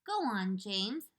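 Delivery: gently. Acted. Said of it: "the ladybug said gently".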